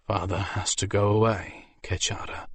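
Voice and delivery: gentle, fading reassurance; gently. Acted. Father telling his little daughter he must leave, gentle. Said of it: "Urtho said gently".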